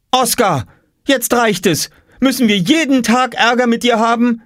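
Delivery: very high exasperated scold. A narrator's reading. Mama scolding Oskar, exasperated. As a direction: tell him off.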